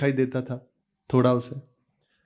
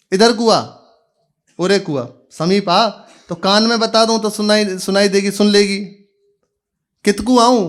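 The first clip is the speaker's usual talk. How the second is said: calling out to her; 5 semitones higher, 4 dB louder than usual. Acted. Son calls out to deaf mother.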